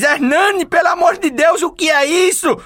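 high alarmed shout; shocked wife shout. Acted. Old wife catches husband with vibrator, high alarmed shout. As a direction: cry out in shock at your husband.

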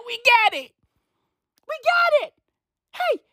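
very high squeal, cracking up; mocking squeal. Real, not acted. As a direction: squeal it in exasperated amusement. Mocking the singer amid laughter.

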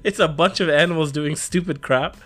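ordinary talk, nothing marked

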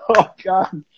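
breathless whisper of dread. Retold or imitated. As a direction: whisper it like you're doomed. Dreading the spicy remedy.

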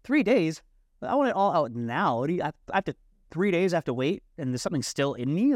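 incredulous protest. Retold or imitated. Pleading with the healer about waiting, high incredulous protest. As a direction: protest in disbelief at the wait. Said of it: "I'm like".

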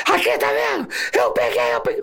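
high, frantic mock yell; imitated shouting. Officer mimics his partner yelling before gathering students, frantic shouting. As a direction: yelp it out to show off the catch. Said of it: "ele gritando".

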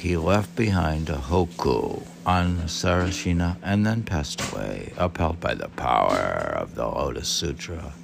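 steady book reading, falling at the end; formal reading voice; reading aloud. Acted. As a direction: read it out like a passage from the text. Reads the biography aloud.

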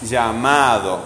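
"llamado" with a long MA; stress on MA. Shown as a demonstration. Teacher pointing out the strong syllable, stress on MA in "llamado". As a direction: lean on the MA of "llamado". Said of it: "¿Cuál suena fuerte?".

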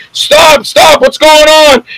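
high, slow, alarmed shout; mock panic shout. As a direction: yell it like a frightened guest. Guests panicking at the arrest.

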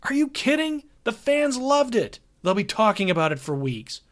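high, eager reassurance; the road manager talks the band down, upbeat and reassuring. Acted. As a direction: brush off their worries cheerfully. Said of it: "Hogarth was reassuring".

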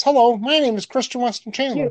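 mock the way he talks, slightly up; imitating Chris Chan. Doing Chris Chan's voice for his co-host, lightly voiced. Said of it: "No, he talks like this".

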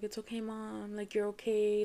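gentle retold reassurance; consoling. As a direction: start hushed and reassure her. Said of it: "like, consoling me".

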